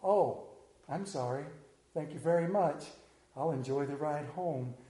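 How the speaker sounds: put-on sheepish kid.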